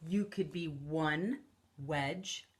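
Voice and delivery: soft whispered read-aloud. Acted. Teacher whispering the book line to the kids. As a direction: breathe the words out softly. Unvoiced line during reading.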